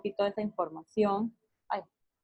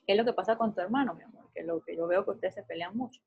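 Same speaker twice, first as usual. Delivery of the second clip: put-on soft talk with older son; 4 dB quieter, faster than usual. Shown as a demonstration. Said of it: "Habla con tu hijo grande primero".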